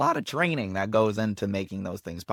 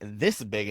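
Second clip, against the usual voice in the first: "this" punched at usual volume; stress on THIS; 3 semitones lower than usual. Shown as a demonstration. Coach sizing up other monologues, "this" stressed. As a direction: lean on "this" to show a large size. Contrasts large and small text size.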